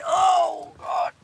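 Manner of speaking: sudden high startled cry; shocked yelp at the dog; startled exclamation. Real, not acted. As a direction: caught off guard by the dog. Dog jumps up.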